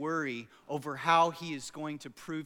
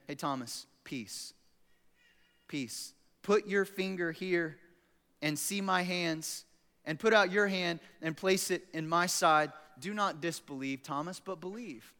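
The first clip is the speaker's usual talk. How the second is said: tender reassurance. Acted. Jesus gently answering doubting Thomas.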